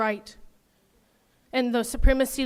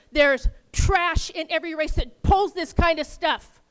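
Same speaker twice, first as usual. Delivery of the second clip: heated, insistent venting; passionate anger. Real, not acted. Resident insisting to the council that race doesn't matter, passionately angry. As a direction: push the point with real conviction. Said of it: "damn it, I'm passionate".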